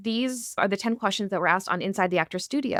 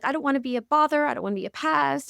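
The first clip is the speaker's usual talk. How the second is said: timid people-pleaser voice; 4 semitones higher than usual. Shown as a demonstration. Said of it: "I very much can talk like this".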